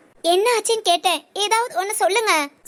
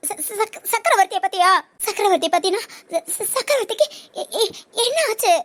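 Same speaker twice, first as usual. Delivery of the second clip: stammering on first syllables in dread; anxious stammer. Acted. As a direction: stumble over the words, afraid to ask. Dreads news about Chakravarthy. (பதற்றத்தில் திக்கித் திக்கி)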